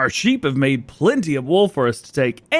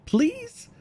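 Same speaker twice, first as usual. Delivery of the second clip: pleading; 5 dB quieter than usual. Real, not acted. Begging the game to accept food.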